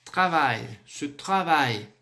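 "travail" with a strongly scraped R; slow "ce travail" with a throaty R; rasped French R. Shown as a demonstration. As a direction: model "travail", rasping the R in "tra". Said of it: "o R é bem rasgado".

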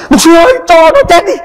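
high, crying plea of a desperate mother; mother sobbing out a plea to the pastor; distraught mother. Retold or imitated. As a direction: beg like a mother at the end of her rope.

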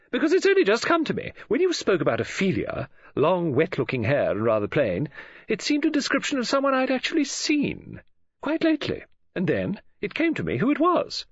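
high-pitched, self-justifying explanation; excited woman friend. Acted. Woman friend explains her sudden recollection, excited. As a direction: explain as the realisation is still dawning.

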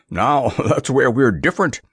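ordinary delivery, nothing marked

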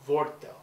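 "Wortel" repeated firmly as a Dutch model word; Dutch word demo. Shown as a demonstration. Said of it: "give A a little Dutch lesson".

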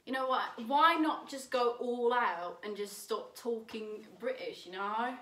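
lightly put-on British accent. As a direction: go all out with a playful British accent. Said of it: "like a British person".

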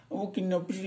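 high, sing-song Indian accent imitation; mock Indian-accented English; Indian English intonation. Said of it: "Kan intonasinya".

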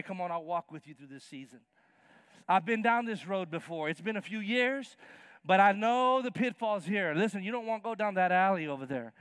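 walk them through it kindly; reassuring parent. Pretend. Parent comforting a worried sixth grader, gentle and reassuring.

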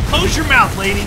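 loud, high shout. Retold or imitated. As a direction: yell it sharply. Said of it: "I said".

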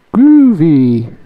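loud high drawn-out "Groovy"; cool slang voice. Acted. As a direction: say it like a cool dude. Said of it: "Apparently Groovy is also Groovy in Obonics".

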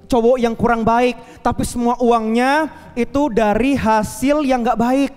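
woman telling her pastor he was right, lightly voiced; grateful young woman.

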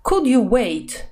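slow, gentle "Could you wait?" with the weight on "could"; polite tone. Shown as a demonstration. Teacher showing students a polite request, slow and gentle. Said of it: "вежливого тона".

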